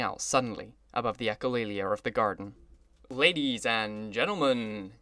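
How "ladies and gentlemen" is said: slow, drawn-out announcer call; crying out. Acted. Orchestra leader calling to the garden guests, slow announcement. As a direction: call the crowd to attention. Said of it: "he cried".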